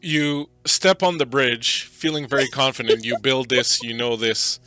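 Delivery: loud, deliberate game master narration; scene setting. Acted. Game master leads the player onto the bridge, loud suspenseful narration.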